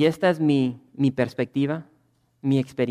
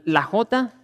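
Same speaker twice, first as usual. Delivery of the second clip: normal talking voice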